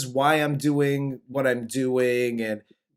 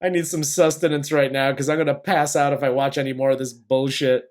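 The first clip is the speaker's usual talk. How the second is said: fed-up actor, rushed; faster than usual. Retold or imitated. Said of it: "He was like".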